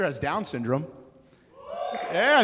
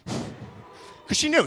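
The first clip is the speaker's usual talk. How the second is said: knowing whisper; 11 semitones higher, much slower than usual. Acted.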